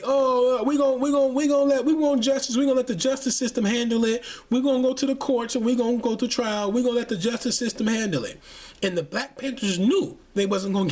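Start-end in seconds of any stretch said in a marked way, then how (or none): 0.0-8.4 mocking meek parents. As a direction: play them as meek and eager to please. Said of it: "And they".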